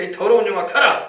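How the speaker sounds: commanding exorcism cry. Shown as a demonstration. Pastor shows the congregation how to cast out a spirit, loud command. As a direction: command it out with force.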